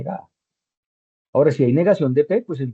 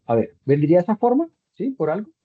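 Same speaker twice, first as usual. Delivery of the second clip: higher, louder checking question; asking aloud; 5 semitones higher, 4 dB louder than usual. Real, not acted. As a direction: put the question out to the student. Asks the student aloud.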